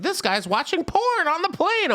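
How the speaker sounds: high, shocked stranger voice; a scandalized passenger whispering; judgy stranger. Retold or imitated. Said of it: "If someone was, like, sitting behind me".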